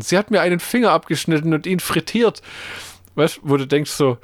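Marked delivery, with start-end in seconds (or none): 0.0-2.4 higher-pitched imitation of a complaining victim; mimicked accusing complaint, raised pitch; mock accusation. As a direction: act out his tall tale, pitched up. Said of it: "Das erzählt er dreimal Leuten".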